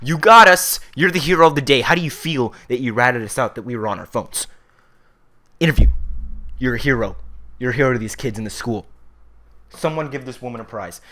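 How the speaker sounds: sarcastic loud taunt at the accountant lady; sarcastic shouting. Acted. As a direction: shout fake congratulations at the snitch. Mocking the office lady who told.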